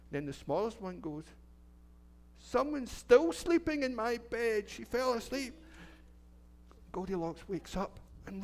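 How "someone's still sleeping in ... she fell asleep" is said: high and slow, a small bear calling out; high, slow little bear. Acted. Storyteller voicing the littlest bear for the children, high and slow. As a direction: stretch it out high like a tiny bear.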